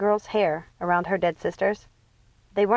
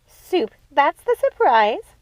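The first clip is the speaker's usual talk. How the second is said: higher, louder, slow mocking screech; 7 semitones higher, 5 dB louder, much slower than usual. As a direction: screech it out in scorn. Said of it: "screeched Martha".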